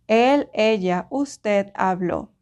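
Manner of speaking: habló with the final Ó stressed, slow. Shown as a demonstration. Teacher to students, stressing the final ó. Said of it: "Emphasize that O".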